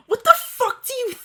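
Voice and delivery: high, hammed-up angry snap; mock angry retort. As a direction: fire it back in mock outrage. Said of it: "I asked angrily".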